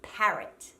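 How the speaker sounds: "Parrot" with an open A as in back; Australian short A. Shown as a demonstration. Coach models the right version, open A in "Parrot". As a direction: open the first vowel of "Parrot". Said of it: "focus on that short".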